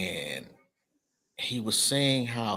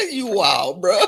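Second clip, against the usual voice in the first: laughing; 11 semitones higher, 5 dB louder, slower than usual. Real, not acted. Laughing at MySpace joke.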